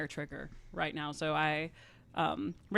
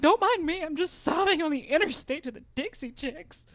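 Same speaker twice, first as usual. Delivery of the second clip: mock frantic text; 8 semitones higher, 6 dB louder than usual. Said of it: "I was like".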